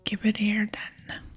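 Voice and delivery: slow, slurred stage whisper; whispered drunken dwarf. Acted. Dwarf in a pub demands a drink, drunken whisper. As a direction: draw it out like a tipsy dwarf.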